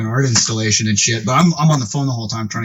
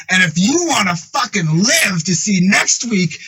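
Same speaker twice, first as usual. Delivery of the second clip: emphatic acted ultimatum, pitched up; angry threat; 6 semitones higher than usual. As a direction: lay down a mock-menacing threat, word by word. Frank threatens the teller.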